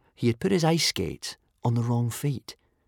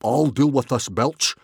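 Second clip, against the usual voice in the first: mildly raised, commanding voice; understated yell; 3 semitones higher than usual. A narrator's reading. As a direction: take charge with a slight raise of voice. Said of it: "yelled Stoic the Vast".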